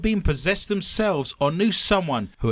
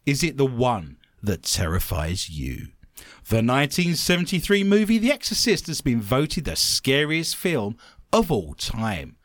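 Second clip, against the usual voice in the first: news story read; 2 semitones lower than usual. Acted. Host reads scariest films story to co-host, news read.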